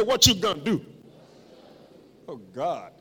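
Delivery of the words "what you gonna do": mock American accent, loud lead-in. Shown as a demonstration. Preacher coaching congregation to say it like an American, American accent. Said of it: "Say it like an American".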